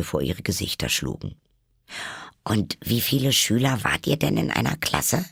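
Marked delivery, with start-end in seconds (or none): 2.4-5.2 put-on higher girl's voice, inquiring; curious Alice. A narrator's reading. Alice changing the subject with a question, curious. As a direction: ask eagerly, pitched up. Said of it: "schnell auf ein anderes Thema kommen wollte".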